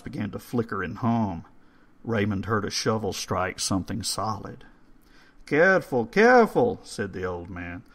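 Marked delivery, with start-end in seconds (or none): 5.5-6.8 put-on higher and louder old caretaker; urgent old man. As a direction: warn them sharply as the old man. Old man warns the digger.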